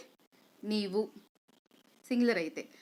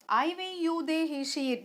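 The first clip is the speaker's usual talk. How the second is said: practice recitation; 5 semitones higher, much slower than usual. Shown as a demonstration. Teacher showing students how to practise the pronouns, rote recitation. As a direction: reel off the list for learners to copy. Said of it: "దీన్ని ఇలాగే practice చేయండి".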